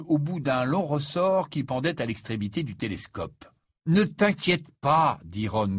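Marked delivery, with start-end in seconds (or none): 3.9-5.2 holding back laughter. Acted. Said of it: "qui s'efforçait de ne pas éclater de rire".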